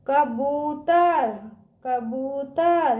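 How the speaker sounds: very slow कबूतर, बू held long; drawn-out long ū. Shown as a demonstration. Teacher drilling children, कबूतर with drawn-out ū. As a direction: stretch out बू in कबूतर. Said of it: "इसका उच्चारण ना खींच के करते हैं".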